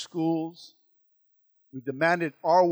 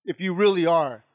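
taunting; 4 semitones higher, 7 dB louder than usual. Acted. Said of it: "talking a lot of smack".

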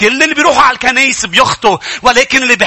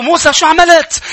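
Moses demanding; 6 semitones higher than usual. Acted. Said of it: "قال له".

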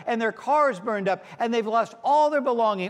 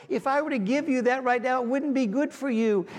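God speaking; 4 semitones higher than usual. Retold or imitated. Preacher voicing God telling the congregation to trust his view. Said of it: "And God says".

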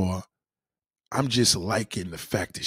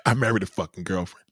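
breathy whispered aside; hushed whispered punchline; 4 semitones lower than usual. Acted. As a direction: whisper it like a confession. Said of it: "whispered aside".

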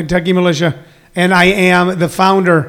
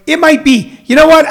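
mock surprised; 10 semitones higher, 5 dB louder than usual. Real, not acted. Replying to Tina about the meniscus, mock surprised. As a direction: voice jumps way up, loud. Reacting to a viewer's comment.

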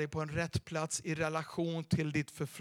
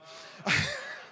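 laugh. Real, not acted. Laugh after rousing the crowd.

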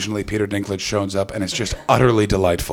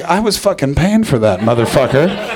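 exasperated father; 3 semitones higher, 5 dB louder than usual. Acted. Father fuming at his child over wasted money, mock outrage. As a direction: protest loudly like a dad who wasted his money. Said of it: "looking at you like".

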